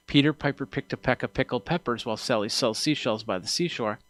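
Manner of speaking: spoken from the corner of the mouth past the mic; off to the side. Shown as a demonstration. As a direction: keep the P's soft by talking across the capsule. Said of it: "So if I go".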